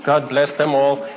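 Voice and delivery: low, droning list of blessings; mock Christian prayer. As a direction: recite it like a rote self-centred prayer. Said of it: "Just look at a Christian's prayer".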